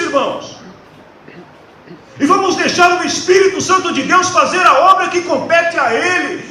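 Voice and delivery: high-pitched, forceful exhortation to the congregation; impassioned preaching. Real, not acted. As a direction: plead with the flock at full force, pitched high.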